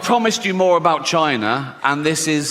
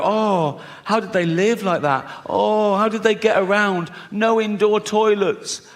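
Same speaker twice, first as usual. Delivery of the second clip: pitying future person; 5 semitones higher than usual. Retold or imitated. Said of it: "You go".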